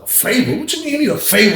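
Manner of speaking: high incredulous question; can't believe what he's asking; surprised. Retold or imitated. Shocked reply to strange request.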